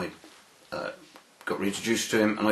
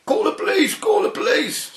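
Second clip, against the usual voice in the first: mock yelling "Call the police" much higher and louder; retold panicked shouting; 3 dB louder than usual. Solicitor shouting at his receptionist, hammed-up high panicked yell. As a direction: shriek it like a man in a flap. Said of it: "started shouting at the receptionist".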